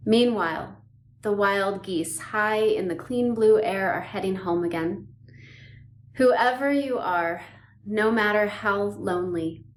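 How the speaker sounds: measured poem reading with long pauses; poem recitation. Acted. Yoga teacher sharing a beloved poem with listeners, poem recitation. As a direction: recite it unhurriedly, letting each phrase land.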